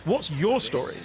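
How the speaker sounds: pointed, interrogating question; hostile question. Shown as a demonstration. British person in a police interrogation, hostile and pointed. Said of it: "It would be an extremely hostile question".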